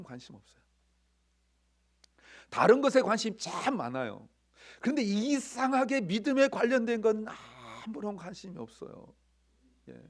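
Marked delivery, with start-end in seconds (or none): 2.5-9.1 higher, louder sermon delivery; impassioned preaching. Real, not acted. Preacher urging congregation to feel the women's excitement, impassioned. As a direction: drive each point home with raised voice.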